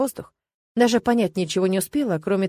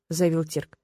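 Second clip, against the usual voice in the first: ordinary delivery, nothing marked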